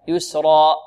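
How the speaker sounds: يسرا ending in a glottal catch; wrong reading demo. Shown as a demonstration. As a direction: show يسرا closed with a hamza. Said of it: "خطأ".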